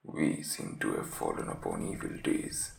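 very low, croaky sick man's voice; croaking invalid. Acted. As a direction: croak it out weakly from the sickbed. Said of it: "was croaking".

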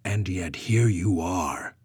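slow, lofty and condescending. Acted. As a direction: talk down to her. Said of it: "Brona stated condescendingly".

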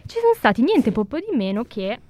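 speaking through a face mask; words a bit muffled by a mask. Real, not acted. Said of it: "colpisco il microfono con la mascherina".

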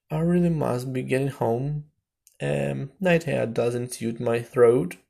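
fussy magpie. A narrator's reading. Magpie making prim excuses to leave.

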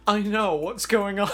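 scared friend. Retold or imitated. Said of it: "And he was like".

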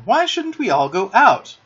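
high, loud, eager proposal; excited cry. A narrator's reading. John urges the others outside, excited cry. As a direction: propose it in a rush of enthusiasm. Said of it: "cried John".

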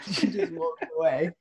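real laughter spilling into the words; laughing. Real, not acted. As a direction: laughs out the punchline. Laughs at the absurd ending.

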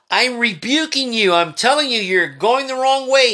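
stern rebuke. Acted. Preacher voicing God rebuking.

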